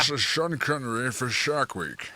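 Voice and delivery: mocking a bad Scottish impression; badly faked Scottish burr; Sean Connery. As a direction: imitate a terrible movie-star impersonator. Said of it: "the worst Sean Connery impression".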